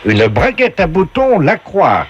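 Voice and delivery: slow, high prize announcement; game show announcer. Acted. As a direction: present the item like a TV game host. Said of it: "la voix du jeu".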